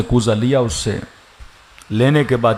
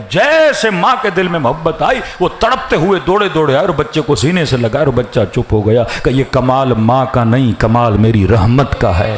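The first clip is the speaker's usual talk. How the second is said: louder and louder, peaking in a shout; rising preaching shout; 3 dB louder than usual. Real, not acted. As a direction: build the crowd up to a cry on mercy. Sermon climax on God's mercy. (بلند آواز میں جوشیلا خطاب)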